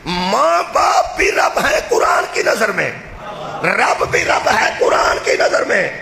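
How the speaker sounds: thundering sermon climax; preaching at full force. Real, not acted. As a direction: hammer each point home to the crowd.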